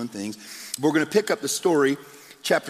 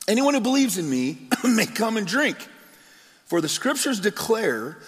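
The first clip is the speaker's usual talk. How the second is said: higher, ringing call to a crowd; mild raised proclamation; proclaiming; 6 semitones higher than usual. A narrator's reading. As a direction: call out over the festival crowd. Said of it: "stood and shouted to the crowds".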